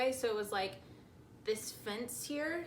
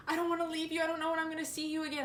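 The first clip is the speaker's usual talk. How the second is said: higher, rushed, mildly frantic plea; panicked; 5 semitones higher, much faster than usual. Retold or imitated. Shaking boyfriend not wanting to leave, mildly mock-panicked. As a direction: imitate a boyfriend pleading in a hurry. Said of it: "he was panicked. He was, like, shaking".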